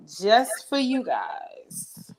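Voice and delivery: slow, breathy whisper to the viewers. Real, not acted. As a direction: drop to a slow whisper, just for them. Confiding aside to viewers.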